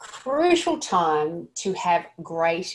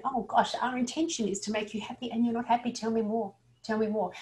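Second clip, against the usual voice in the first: a touch softer, caring and attentive; the right way, lightly caring and concerned; 3 semitones higher, 5 dB quieter than usual. Shown as a demonstration. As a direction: gently invite them to go on. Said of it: "Have a look of concern".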